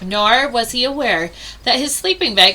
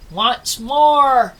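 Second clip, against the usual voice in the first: muffled; 4 dB louder than usual. Acted. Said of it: "his muffled voice calling".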